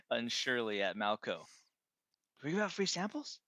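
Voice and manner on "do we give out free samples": high, hesitant drone asking; unsure, look to the boss. Acted. Drone apprentice unsurely asks his master, high voice.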